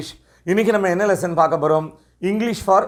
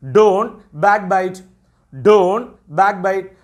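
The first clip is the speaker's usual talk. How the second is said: slow teacher model phrase; much slower than usual. Shown as a demonstration. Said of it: "அல்லது".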